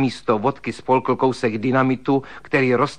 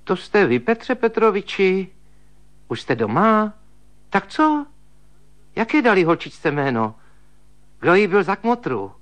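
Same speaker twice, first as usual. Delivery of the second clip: put-on higher, rapid chatty old maid; higher prattling spinster; chattering woman; 8 semitones higher than usual. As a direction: babble eagerly as the sister-in-law. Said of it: "zabrebentil ženský hlas".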